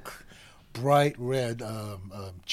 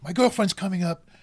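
higher, halting nervous plea; imitated nervousness; 5 semitones higher, 3 dB louder than usual. Nervous suitor explaining to conductor, imitated nerves. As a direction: stumble through an explanation, pitched up. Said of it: "he was really nervous".

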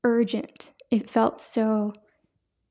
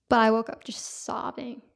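whispered, voice nearly gone; emotional whisper. Real, not acted. Telling the audience about waking up sobbing, whispered. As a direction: hold back tears in a whisper.

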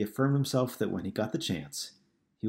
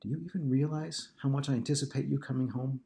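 near tears; 6 semitones higher than usual. Acted. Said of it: "on the verge of tears, quietly said".

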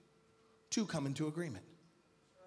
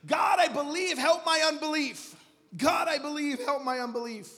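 raised, pleading prayer shout; higher-pitched, hammed-up plea from someone beaten; defeated cry to God; 7 semitones higher, 5 dB louder than usual. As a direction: cry out to God in acted desperation. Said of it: "when you're defeated and you're like".

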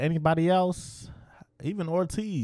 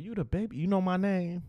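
imitated quote; 6 semitones higher than usual. Acting out a retold exchange.

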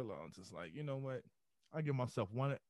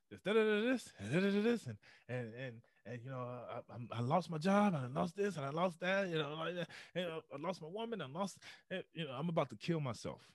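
pitched up, hurried pleading run of complaints; lamenting; 4 semitones higher than usual. Retold or imitated. Imitating himself lamenting his losses to the head monk. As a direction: pour out the losses in a rising wail. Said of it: "I just started lamenting".

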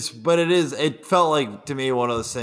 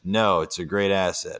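deadpan; 5 semitones lower than usual. Retold or imitated. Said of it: "Biden deadpanned".

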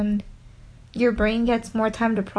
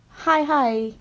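imitating stutter; 4 semitones higher than usual. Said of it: "he'll be like".

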